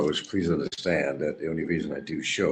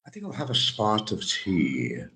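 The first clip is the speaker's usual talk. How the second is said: mock British accent; 4 semitones higher than usual. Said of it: "I love the way the British talk".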